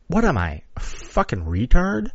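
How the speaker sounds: offhand question, pitch lifting on "fucking retard"; casual self-mockery. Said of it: "get the exact intonation of my voice right".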